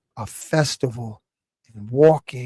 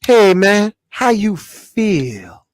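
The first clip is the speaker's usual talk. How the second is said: mock soft brother; 5 semitones higher, 5 dB louder, much slower than usual. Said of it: "I'm hearing brothers saying".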